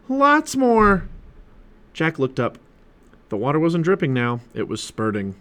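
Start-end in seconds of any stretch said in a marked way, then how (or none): 0.1-1.1 high, loud, urgent exclamation; alarmed. A narrator's reading. Annie to Jack as water pours in, alarmed. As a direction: cry it out in rising panic. Girl reports the sub flooding.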